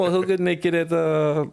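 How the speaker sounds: high laughing voice. Real, not acted. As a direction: laugh through the start. Laughing reply to joke.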